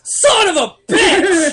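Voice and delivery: high, loud, slow panicked yelp; panicked curse. Retold or imitated. Caught with the phone camera, yelping in high panic. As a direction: blurt it in mock panic.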